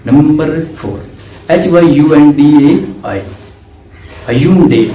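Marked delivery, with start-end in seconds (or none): 4.3-4.8 Hyundai said hyun-deh; Hyundai ending in a short eh; brand name pronounced. Shown as a demonstration. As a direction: say Hyundai as ə-yun-deh, not hy-un-dai. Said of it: "इसको Hyundai नहीं पढ़ते".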